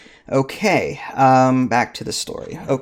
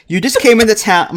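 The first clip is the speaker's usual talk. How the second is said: put-on light French accent, higher and louder; 7 semitones higher, 4 dB louder, faster than usual. Clerk questioning the new arrival, light French accent.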